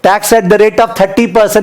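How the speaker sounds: very slow, word by word for note-taking; teacher dictating at a crawl; slow dictation. Shown as a demonstration. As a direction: spell it out slowly so they can write. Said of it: "मेरे को tax बताना".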